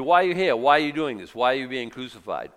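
loud, insistent questioning, fading by the end; pressing questions. Retold or imitated. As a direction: fire the whys at him, then ease off. Preacher voices questioner at cross.

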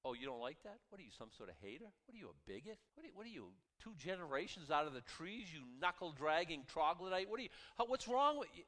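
ramp up the ridicule until it bursts out; mock accuser. Mocking critics of Christians.

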